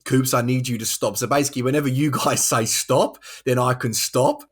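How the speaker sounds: deliberately annoying mock-Australian voice; bad Australian accent. Host explaining his lost bet, bad Australian accent. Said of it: "really bad Australian accent".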